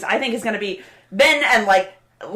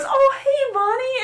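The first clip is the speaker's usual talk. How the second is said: put-on drunk Klaus; slower than usual. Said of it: "he's still drunk, but he goes".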